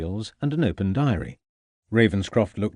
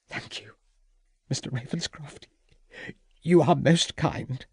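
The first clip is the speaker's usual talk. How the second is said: hostess voice; 5 semitones higher than usual. A narrator's reading. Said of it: "Mrs Pitzer thanks him".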